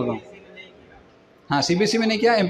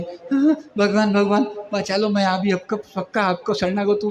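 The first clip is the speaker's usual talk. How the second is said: mock desperate plea; 3 semitones higher, slower than usual. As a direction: pitch leaps up, then pleading. Acted plea to God in trouble. (घबराकर भगवान से गुहार की नकल)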